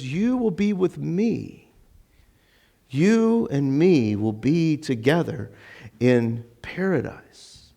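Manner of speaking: slow, reassuring promise; slow, heartfelt assurance; sincere, not sarcastic. Acted. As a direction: promise it gently and unhurriedly. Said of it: "It's not a sarcastic us".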